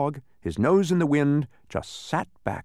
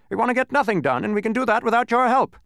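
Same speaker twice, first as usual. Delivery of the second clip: mild snap with higher pitch; a lightly voiced irritated retort; snapping angrily; 10 semitones higher, 6 dB louder, faster than usual. A narrator's reading. Lethargarian snapping at Milo, mildly angry. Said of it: "snapped another angrily".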